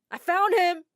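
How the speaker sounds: high, loud shout of victory; triumphant yell. Acted. Girl yells she found Adam, loud and high. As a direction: announce the catch.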